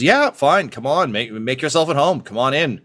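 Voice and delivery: high, loud, casual welcome; Moreau, breezy welcome. Acted. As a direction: wave them in like an old friend. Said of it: "and just says".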